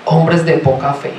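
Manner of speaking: understated sarcastic scolding; sarcastic smile. Retold or imitated. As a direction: tease them gently with a smile in the voice. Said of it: "con una sonrisa sarcástica les dice".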